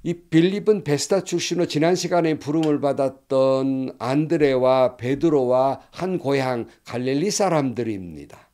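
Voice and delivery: normal talking voice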